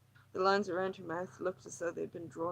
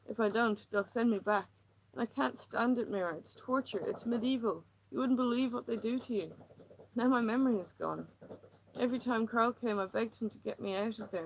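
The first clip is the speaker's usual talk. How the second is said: higher, tense, pleading woman; distressed woman; 4 semitones higher, 3 dB louder than usual. Acted. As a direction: pour out her misery, near breaking. Lily's agitated monologue.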